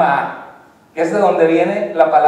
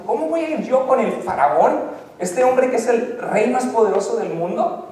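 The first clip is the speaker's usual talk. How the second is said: a touch higher, doubtful Moses pleading; lightly voiced, worried Moses asking how; fretful Moses; 4 semitones higher than usual. Moses doubts going to Pharaoh.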